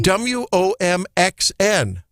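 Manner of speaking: W O M X N spelled slowly, letter by letter; slow, separate letters on W O M X N; spelling it out. Shown as a demonstration. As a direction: spell W O M X N at half speed for a listener. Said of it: "Spell that again".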